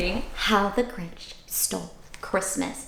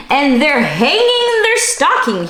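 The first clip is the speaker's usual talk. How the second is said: snarled; 6 semitones higher, 6 dB louder than usual. Acted. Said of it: "he snarled with a sneer".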